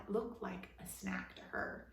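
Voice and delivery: ordinary delivery, nothing marked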